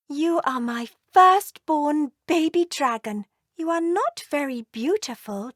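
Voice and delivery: a loving mother dragon doting on her firstborn; tender mother dragon. Acted. Mummy Dragon speaks to baby.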